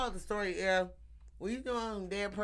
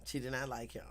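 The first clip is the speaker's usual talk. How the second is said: whisper; 6 semitones lower, 6 dB quieter than usual. Real, not acted. Gossip whisper.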